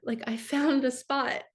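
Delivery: choked up, fighting through tears between phrases; tearful. Real, not acted. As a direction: voice lifted by welling tears. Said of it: "I'm gonna cry saying this".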